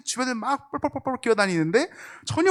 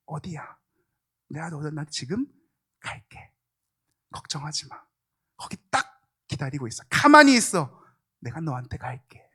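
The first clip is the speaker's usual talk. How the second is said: tender reassurance; 3 semitones lower than usual. Acted. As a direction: whisper it like a father comforting a child. God's voice, soft reassurance. (속삭이듯 다정하게 위로하며)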